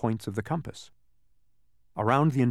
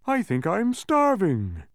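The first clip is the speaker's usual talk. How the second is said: high, drawn-out, louder wail; starving bug; 9 semitones higher, 5 dB louder, slower than usual. A narrator's reading. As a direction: wail it slowly in a high character voice. Gasping bug acts desperate hunger.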